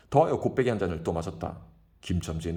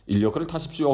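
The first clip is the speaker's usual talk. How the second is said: louder, higher polite pitch; imitating his own touting; 7 semitones higher, 6 dB louder than usual. Kim mimicking his own call to a lady. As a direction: put on a fawning tout.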